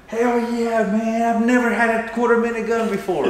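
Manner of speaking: high, loud whoop of joy; over-the-top shooter celebrating; super excited. Retold or imitated. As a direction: cheer like you just hit the target. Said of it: "you freaking get super excited".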